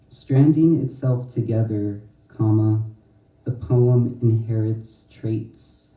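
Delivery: slow, measured reading with each comma spoken; poetry reading. Acted. Poet reading her poem Nuclei aloud, slow and measured. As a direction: read slowly, pausing on every spoken comma.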